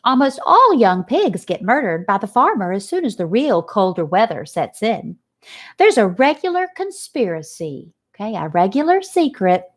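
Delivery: lightly voiced old sheep, gossiping; a hint of an old sheep telling grim news. Old sheep warns Wilbur of the farmer's plot, lightly voiced.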